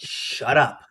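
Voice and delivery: sharp unvoiced whisper. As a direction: hiss it in a whisper.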